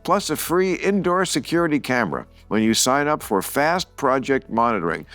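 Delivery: smooth sponsor read, slowing on URLs. Acted. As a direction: read it like a radio spot. Host reads sponsor ads.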